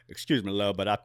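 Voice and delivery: lightly voiced rock-and-roll star impersonation; a hint of the singer's voice, tentative first go; a famous singer. Customer going back for onions, light impersonation of a singer. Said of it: "give me a line to say like a singer".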